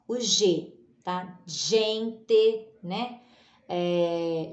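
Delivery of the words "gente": "Gente" in two slow syllables, zh onset; careful teaching "Gente"; soft G. Shown as a demonstration. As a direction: say zhen-te for "Gente". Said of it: "para o som G".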